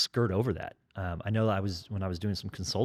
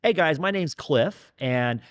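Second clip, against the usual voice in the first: loud class intro; 7 semitones higher, 4 dB louder than usual. Shown as a demonstration. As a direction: boom it out to the whole class. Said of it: "I start every alpha class like this. I go".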